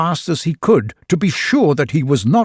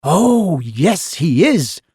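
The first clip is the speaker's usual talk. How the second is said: shouting; 4 semitones higher, slower than usual. A narrator's reading. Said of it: "they all shouted".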